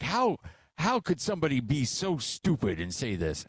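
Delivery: imitating irate son. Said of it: "he was just irate".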